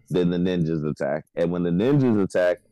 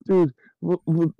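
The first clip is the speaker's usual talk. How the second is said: mock panic; 8 semitones higher than usual. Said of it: "like, panicking".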